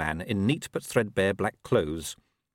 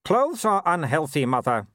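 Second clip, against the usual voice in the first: calm; 8 semitones higher, 4 dB louder than usual. A narrator's reading. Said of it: "said Wulf calmly".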